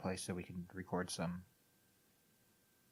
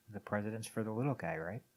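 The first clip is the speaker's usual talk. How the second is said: dry, understated sarcasm; sarcastic; 4 dB quieter than usual. Real, not acted. Podcaster needling about the president, dryly sarcastic. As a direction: feign faith with a tag question. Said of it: "That was sarcasm".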